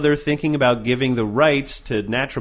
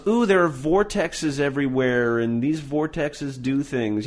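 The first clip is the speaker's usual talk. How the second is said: slowed, hushed mystic voice; awed hippie, lightly done; mock new-age believer; slower than usual. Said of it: "just one of those".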